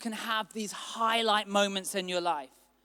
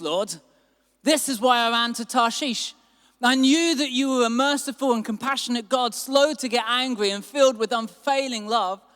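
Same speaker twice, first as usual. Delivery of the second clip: raised, loud complaining to God; angry complaint; 3 semitones higher, 5 dB louder than usual. Acted. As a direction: scold God louder, feeling betrayed. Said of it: "he became very angry".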